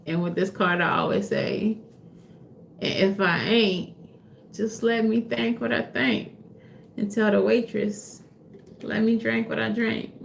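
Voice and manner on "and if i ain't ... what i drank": quoting a rapper. Retold or imitated. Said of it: "Was that him?".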